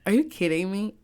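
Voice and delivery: voicing the social media backlash, mock outraged; mock outraged hater. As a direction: sneer it like an indignant commenter. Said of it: "social media was like".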